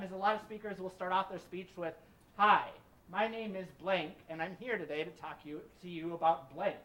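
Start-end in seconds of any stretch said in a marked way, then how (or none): 2.4-6.8 infomercial voice. Retold or imitated. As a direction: pitch it like a TV ad. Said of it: "it sounds like an infomercial".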